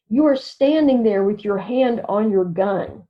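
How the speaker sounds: retold mother spelling it out word by word, "You are standing there"; "You are" kept uncontracted, each word set out for the listener; spelled out. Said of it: "the mother spells it out for her".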